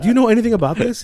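high put-on British questioning; mock-official British caller; British accent. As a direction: press them as a fake British collector. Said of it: "I did it like a British accent".

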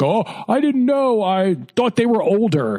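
high, whiny excuse; sheepish man. Retold or imitated. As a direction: squirm out of it. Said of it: "And he's like".

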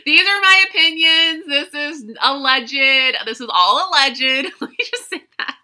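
playful fake-serious legal voice; hammed-up "allegedly" disclaimer; mock disclaimer. Jokey legal disclaimer after "sue me.

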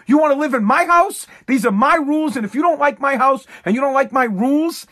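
hammed-up dad ordering the kid out; dad laying down rules. Host voicing a dad evicting his kid, mock stern shout. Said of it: "That's dad style".

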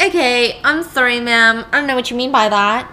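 Teddy apologising to Rachel, caught off guard; flustered Teddy. Retold or imitated. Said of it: "And he's like".

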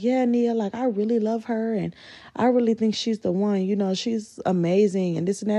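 lightly mocking lovey tone; imitating girlfriend. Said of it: "she'll be like".

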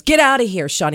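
shooing shout. Retold or imitated. Friend shoos him away.

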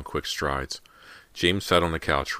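ordinary delivery

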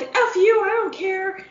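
hammed-up dismissive city voice; mock rude city dweller. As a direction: toss it off like you don't care about anyone. Big-city people acted out.

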